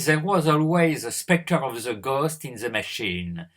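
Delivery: English read aloud in a thick French accent; French lecturer reading an English quote in his own French accent. Shown as a demonstration. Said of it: "mon accent anglais, euh, ridicule".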